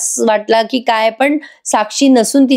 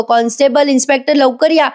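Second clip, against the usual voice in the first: mock panicked shout; 4 semitones higher than usual. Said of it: "मोठ्याने आरडाओरडा करायला लागतो".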